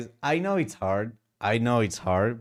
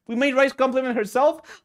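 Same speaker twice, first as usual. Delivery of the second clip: excited announcement; 12 semitones higher, 6 dB louder than usual. Real, not acted.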